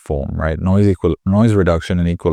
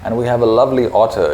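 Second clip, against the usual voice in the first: bright voiceover; 4 semitones higher than usual. Shown as a demonstration. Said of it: "That's better".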